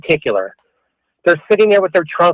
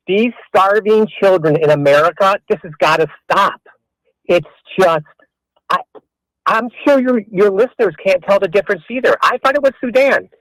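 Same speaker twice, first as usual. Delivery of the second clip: sarcastic. Real, not acted. Caller mocking the host's hunger concern, sarcastic. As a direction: feign heartfelt outrage, mockingly. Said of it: "you're being sarcastic".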